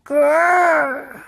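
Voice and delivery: a little boy's pretend dinosaur roar; dinosaur growl. George greeting his balloon dinosaur: playful growl.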